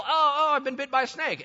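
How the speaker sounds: high-pitched cry of the bitten; hammed-up yelp of distress, easing off; mock alarm. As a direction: play a panicked snakebite victim. Acts out bitten people panicking.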